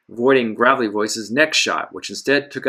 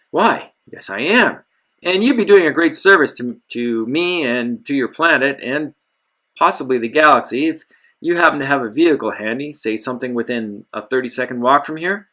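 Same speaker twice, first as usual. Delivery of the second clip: eager charm; 3 semitones higher than usual. Acted. Hero pleads charmingly for a vehicle.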